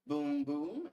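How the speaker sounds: high, loud booming; thunder boom. Acted.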